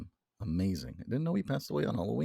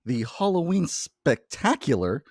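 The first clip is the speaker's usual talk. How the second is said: hyped welcome; 2 semitones higher, 6 dB louder than usual. Real, not acted.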